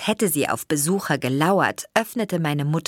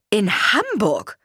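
dismayed mother; 5 semitones higher, 4 dB louder, slower than usual. A narrator's reading. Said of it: "fragte meine Mutter entsetzt".

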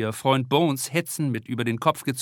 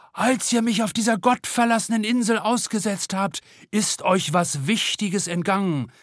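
theatrical throaty proclamation; 8 semitones higher than usual. A narrator's reading. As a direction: proclaim it like a stage pirate. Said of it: "proklamiert sie theatralisch mit kehliger Stimme".

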